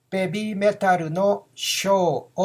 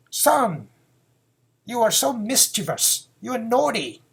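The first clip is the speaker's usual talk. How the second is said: mother scolding her son, a little higher; 4 semitones higher than usual. Acted. Mother scolding her mischievous son, lightly acted. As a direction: tut at a naughty son like his mom. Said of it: "a mother tells this to her son".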